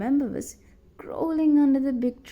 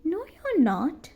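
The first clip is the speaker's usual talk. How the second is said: sobbing; 7 semitones higher than usual. A narrator's reading. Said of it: "Sally sobbed".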